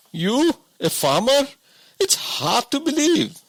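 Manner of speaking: a simple woodsman who can't believe it; woodcutter voice. A narrator's reading. King's guards? woodcutter doubts disguised king.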